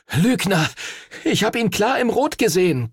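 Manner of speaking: high, heated accusation; gasped accusation. A narrator's reading. Henry to the cheating rival, gasping accusation. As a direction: fling the accusation out. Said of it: "keuchte Henry".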